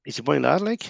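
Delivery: Geordie "He's a bonny lad, like" with "lad" rhyming with "bad"; learner's teacher models Geordie phrase; Geordie demo. Shown as a demonstration. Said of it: "a word that you stick at the end".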